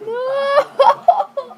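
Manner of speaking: high, loud repeated yells; shouting no. Real, not acted. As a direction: yell in panicked protest. Yelling at a glitch.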